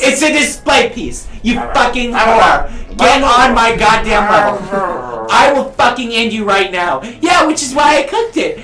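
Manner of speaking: angry shouting. Acted. Character rages at player.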